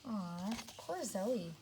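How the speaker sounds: sympathetic aw. Real, not acted. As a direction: say it slowly, feeling sorry. Pity for Zoe.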